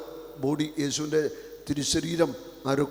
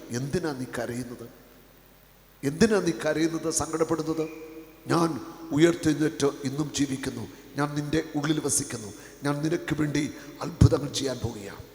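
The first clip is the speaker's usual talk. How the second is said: tender reassurance; 3 dB quieter than usual. Acted. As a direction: console the weeping listener. Jesus speaking consolingly. (ആശ്വസിപ്പിക്കുന്ന സ്വരം)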